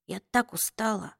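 weak, exhausted whisper; barely voiced, worn out. A narrator's reading. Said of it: "прошептала она". (усталый шёпот)

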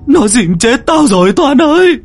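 high, loud wailing plea that builds; crying pleading. Acted. Drowned friend's voice begging Toàn to save him, wailing. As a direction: beg through tears, growing desperate. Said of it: "khóc lóc, kêu van".

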